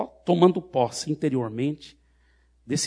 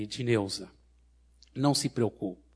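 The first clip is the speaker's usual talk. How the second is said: lower, calm pastoral voice; gentle reassurance; 3 semitones lower than usual. Retold or imitated. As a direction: settle her gently and invite her. Reassures frightened woman after deliverance.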